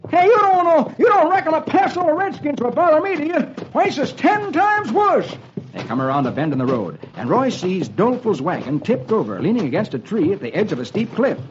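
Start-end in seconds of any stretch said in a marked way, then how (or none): 0.1-5.3 put-on high, panicky old-timer voice; high-pitched scared sidekick; jittery old-timer. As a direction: play a frightened old prospector. Dolfo voiced.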